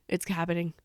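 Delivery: low, soft retold reaction; quietly reporting a thrilled realization; hushed anticipation. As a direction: say it under your voice, holding back excitement. Excited fan retells her reaction.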